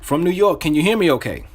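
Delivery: enthusiastic. Shown as a demonstration. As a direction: open the cold call with real energy. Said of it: "you gotta say this with enthusiasm".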